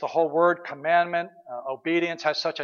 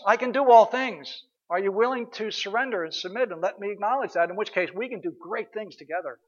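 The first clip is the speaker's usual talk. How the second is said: voicing God; 4 semitones higher, 4 dB louder than usual. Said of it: "we're saying".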